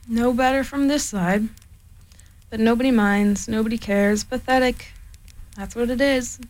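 lightly voiced gloomy donkey; a hint of a despondent Eeyore. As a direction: mope it out like a sad old donkey.

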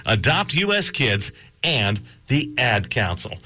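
measured, emphatic radio appeal; polished announcer read; public-service announcement. Acted. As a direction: read it as an adoption PSA, stressing key words.

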